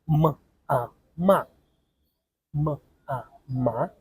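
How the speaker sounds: m and a said apart, then joined into ma; syllable blending. Shown as a demonstration. Teacher showing students how sounds join. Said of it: "The very easy example".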